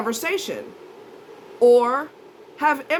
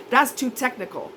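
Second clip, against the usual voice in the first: imitating him. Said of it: "that's one of his excuses".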